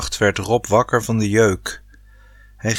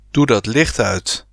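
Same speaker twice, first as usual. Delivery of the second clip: growled. Acted. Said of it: "gromde hij nog".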